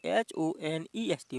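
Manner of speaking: slow teacher spelling of एच ओ एन ई एस टी. Shown as a demonstration. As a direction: spell out एच ओ एन ई एस टी slowly, letter by letter. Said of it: "इसमें क्या दिया हो".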